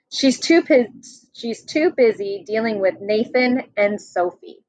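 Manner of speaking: lively picture-book read-aloud; reading to children. Acted. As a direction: read it out to the class like a storybook. Teacher reads picture book to class.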